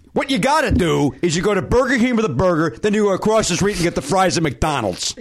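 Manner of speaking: lightly voiced teen know-it-all; a hint of a smug high school kid; high school kid impression. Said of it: "Here's an impression of a kid that I went to grade school with".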